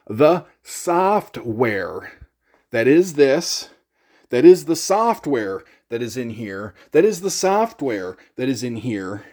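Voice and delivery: software leaned on, slow and loud; stress on software. Shown as a demonstration. Vlogger insisting to forum guys, stressing software. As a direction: hammer the word software home. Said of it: "I stress that word software".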